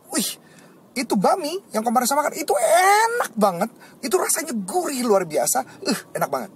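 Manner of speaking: high, gushing rave about the noodles; raving about food. Shown as a demonstration. Teacher gushing over a favourite bowl of noodles, excited and high. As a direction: gush like it's the best thing you ever ate. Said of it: "saya bisa bilang".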